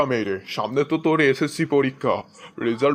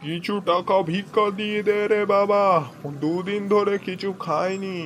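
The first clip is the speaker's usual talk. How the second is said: beggar's plea; 5 semitones higher than usual. Acted. Beggar pleads at the door.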